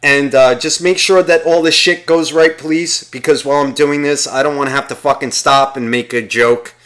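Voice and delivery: lightly voiced priest giving instructions; imagined priest. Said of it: "he's sitting there rehearsing himself".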